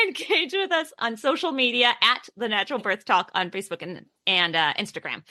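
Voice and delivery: lisping through a retainer; slurred S's around a retainer; wearing a retainer. Real, not acted. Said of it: "I've got my retainers in again".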